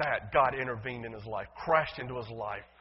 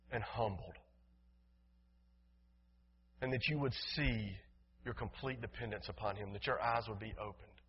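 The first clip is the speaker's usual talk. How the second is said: soft, solemn pulpit plea; hushed, earnest appeal to the congregation; prayerful appeal; 5 semitones lower, 8 dB quieter than usual. Real, not acted. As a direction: let the voice sink, with long pauses.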